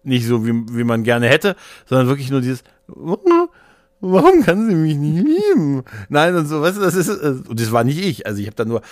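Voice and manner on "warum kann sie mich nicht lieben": high, loud wail; mock heartbroken wail. Imitating the lovesick passenger on the back seat, mock heartbroken wail. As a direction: wail it out like a hammed-up lovelorn lament.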